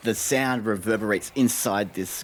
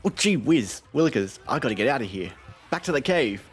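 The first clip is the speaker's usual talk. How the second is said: a hint of a panicky goblin, a bit faster; lightly voiced goblin scout; 4 semitones higher, 4 dB louder than usual. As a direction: squeak it out as the fleeing scout. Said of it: "you hear it say".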